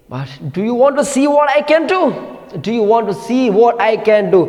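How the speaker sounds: high, fast, defiant threat; threatening challenge. Acted. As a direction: dare him to see. Wife threatens husband.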